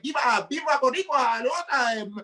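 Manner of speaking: Latino swag. Retold or imitated. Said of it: "Latino type of swag".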